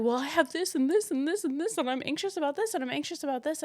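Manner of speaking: high-pitched, piled-up list of worries; overwhelmed rambling. Retold or imitated. Explaining why they cry over gas, overwhelmed rambling. Acting out her overwhelmed, crying self.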